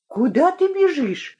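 put-on high girlish voice, out of step; asking while running. A narrator's reading. Running Lyolya asks Inga where she's going, high-pitched. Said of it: "спрашивала на бегу Лёля".

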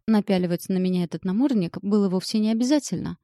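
hoarse rasp through a tight throat; throat swelling shut. Acted. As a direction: squeeze the words past a lump in the throat. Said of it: "просипела сквозь ком в горле".

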